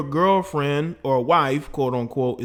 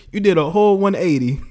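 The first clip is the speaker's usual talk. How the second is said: ordinary talk, nothing marked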